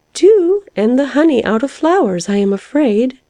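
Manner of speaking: high, resigned little guess; mild sighing. A narrator's reading. Caterpillar guessing the young ones' food, sighing mildly. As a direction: guess with a touch of a sigh. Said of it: "sighed the caterpillar".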